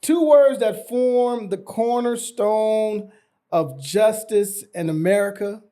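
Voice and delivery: slow, weighty courtroom oratory; passionate closing argument. Pretend. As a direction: lean into every word like a trial lawyer. Mock lawyer continues closing.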